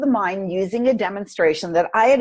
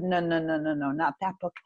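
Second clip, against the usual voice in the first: gentle inner voice; 4 semitones lower, 7 dB quieter than usual. Retold or imitated. Inner voice correcting her.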